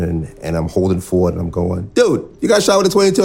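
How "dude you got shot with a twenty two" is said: much higher, loud, laughing incredulous voice; a friend laughing, sure the shot was nothing, much higher and louder; laughing disbelief. Retold or imitated. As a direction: retell it like you couldn't stop laughing at the absurdity. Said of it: "I can remember laughing".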